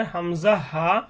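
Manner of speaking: "হামজা হা" released openly from the bottom of the throat; start-of-throat articulation. Shown as a demonstration. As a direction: sound "হামজা হা" from where the throat begins. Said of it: "কণ্ঠনালীর শুরু হইতে উচ্চারণ হবে". (কণ্ঠনালীর শুরু থেকে "হামজা হা")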